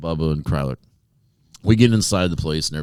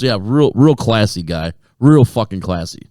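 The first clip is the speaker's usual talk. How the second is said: slow imitated sneer, pitched up; sarcastic; 4 semitones higher, 5 dB louder, slower than usual. Lady putting down the guy in the shirt, slow sarcasm. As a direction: stretch each "real" with mock admiration. Retold woman's sarcastic reply.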